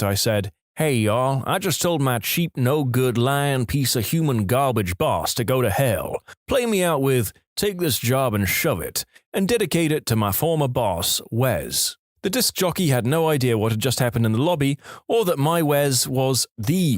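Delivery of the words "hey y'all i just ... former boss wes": hammed-up Southern drawl, slower on the insults; fake southern accent. Caller dedicating a song to his boss on the radio, fake Southern accent. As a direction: put on a Southern good-ol'-boy accent for the request line. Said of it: "In a fake southern accent".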